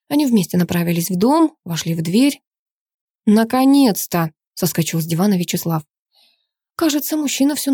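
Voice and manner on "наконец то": slow, loud "finally!"; jumping up from the sofa, loud and slow; relieved exclamation. Acted. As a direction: burst out in drawn-out relief. Father's aide jumps up relieved.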